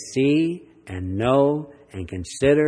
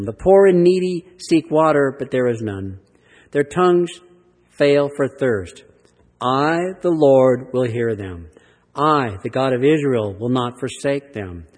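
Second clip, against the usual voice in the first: a strong, proclaiming reading; preached scripture. Acted. Preacher proclaims God's promises of water to the congregation, strong reading. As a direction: declare each promise with weight.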